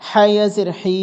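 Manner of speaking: last হি held long; drawn-out vowel. Shown as a demonstration. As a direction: stretch the final হি. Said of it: "টেনে পড়তে হবে".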